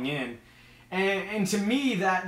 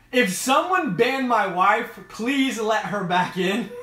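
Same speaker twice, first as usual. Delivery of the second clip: mock-stern plea; 4 semitones higher, 5 dB louder, slower than usual. Real, not acted. Mock plea for banned wife.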